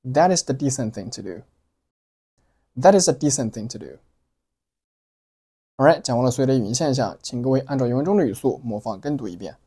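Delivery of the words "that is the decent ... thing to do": "decent" given weight, "is" and "to" light; stress on decent. Shown as a demonstration. Teacher modelling the last line for learners, stressed "decent". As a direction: lean on "decent" and skim the small words. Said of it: "decent做了重读".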